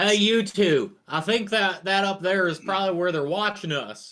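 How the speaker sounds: loud, high voice that carries across the room. A character repeats what he overheard from his companions; loudly repeating what he heard. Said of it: "loudly repeating what he heard".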